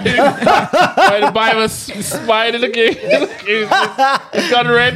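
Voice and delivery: high, slow words through laughter; laughing. Real, not acted. Laughing at a friend's blush.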